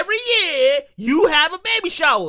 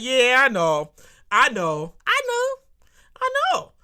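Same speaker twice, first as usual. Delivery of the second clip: dismissive agreement; slower than usual. Pretend. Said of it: "I'm gonna be like".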